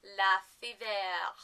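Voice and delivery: "Lefevre" in a clumsy French accent; attempted French accent. Shown as a demonstration. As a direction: try "Lefevre" as a mock-French luh-fee-VAIR. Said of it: "say this with a French accent".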